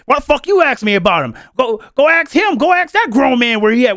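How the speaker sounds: mock annoyed retort, rising in pitch; agitated. Man on his live dodging questions about Dev, agitated. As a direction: imitate someone getting irritated by a question. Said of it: "get annoyed real quick, agitated".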